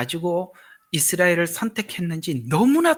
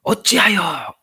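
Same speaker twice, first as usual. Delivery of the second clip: 어찌하여 said higher and louder, falling; emphatic protest; 4 semitones higher, 6 dB louder, much slower than usual. Shown as a demonstration. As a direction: demand it: 어찌하여, pressed hard. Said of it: "이 말들을 그냥 지나치지 말라는 거예요". (어찌하여를 높고 크게 힘주어)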